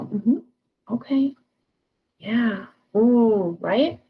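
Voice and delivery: demonstrating engaged listener noises; listening affirmations. Shown as a demonstration. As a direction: show you're following along, slightly overdone. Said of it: "verbal affirmations to demonstrate that you're listening".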